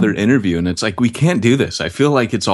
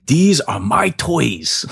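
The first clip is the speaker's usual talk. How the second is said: slow, higher mock Vietnamese accent; Tom Vu; 5 semitones higher, much slower than usual. Host mimics guru flaunting wealth, slow mock Vietnamese accent. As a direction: show off like a pitchman, drawn out in a rough Vietnamese accent. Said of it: "he'd be like".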